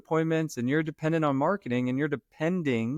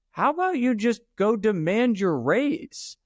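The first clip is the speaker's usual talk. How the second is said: higher and slow, daring him; drawn out, teasing provocation pitched up; pointed mock challenge; 9 semitones higher, slower than usual. Retold challenge to friend.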